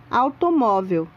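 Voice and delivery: "Automóvel" with the A strong and the U barely heard; teacher stressing the A in "Automóvel"; vowel emphasis demo. Shown as a demonstration. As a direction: lean on the A of "Automóvel". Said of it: "Repare que A é pronunciado com mais intensidade".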